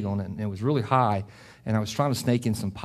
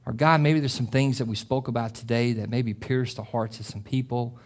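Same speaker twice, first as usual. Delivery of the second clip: closing prayer. Acted. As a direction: lead the church gently into prayer.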